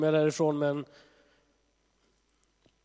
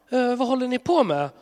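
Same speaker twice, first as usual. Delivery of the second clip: God voiced a little higher, puzzled; 9 semitones higher, 5 dB louder than usual. Preacher voicing a puzzled God to people, high and bemused. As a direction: ask like a baffled parent catching kids.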